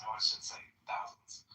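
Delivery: slow hushed aside; whispering. Real, not acted. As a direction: mutter it under your breath.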